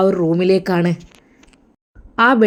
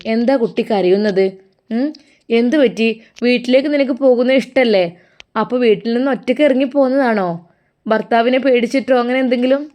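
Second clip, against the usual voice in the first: worried questioning; 3 semitones higher, faster than usual. Acted. Old mother questions crying girl.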